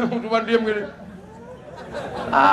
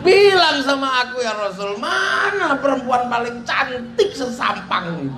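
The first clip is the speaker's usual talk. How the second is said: tearful shout; 4 semitones higher than usual. Retold or imitated. Umar pleading to the Prophet.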